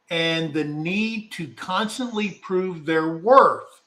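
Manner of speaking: slow, deliberate read-aloud; careful, slowed formal reading; reading a definition. Real, not acted. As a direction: measure out each phrase of a formal definition. Reads out a definition.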